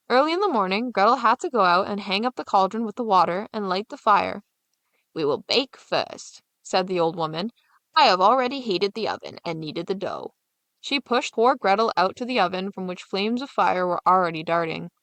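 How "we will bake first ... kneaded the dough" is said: scheming witch. Acted.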